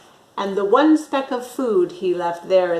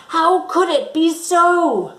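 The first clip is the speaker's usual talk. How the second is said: puzzled Grinch; 7 semitones higher, 4 dB louder than usual. Acted.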